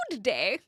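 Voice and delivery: "Good day" as two full words, amused; own "good day". Shown as a demonstration. Streamer laughing at their own version, "Good day" fully sounded. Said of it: "I say good day".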